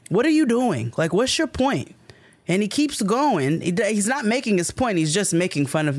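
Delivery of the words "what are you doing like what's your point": sharp, high, pressing question; exasperated demand. Retold or imitated. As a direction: demand he get to the point. Confronting the rude man.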